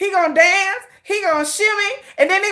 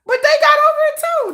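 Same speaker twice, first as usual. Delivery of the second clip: higher emphatic; 11 semitones higher, 3 dB louder than usual. Real, not acted. Repeats line, first high.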